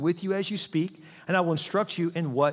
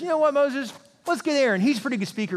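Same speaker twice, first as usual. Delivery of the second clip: sly God; 8 semitones higher, 3 dB louder than usual. Acted. God voiced tricking Moses.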